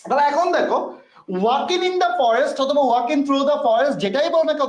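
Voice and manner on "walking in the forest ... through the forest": slow demo pronunciation. Shown as a demonstration. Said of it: "উচ্চারণটা এভাবে কেন বলছি".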